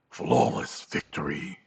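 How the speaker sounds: low, slow, hushed announcer voice; a lightly done deep arcade announcer; low drawn-out game voice. Retold or imitated. Mortal Kombat announcer.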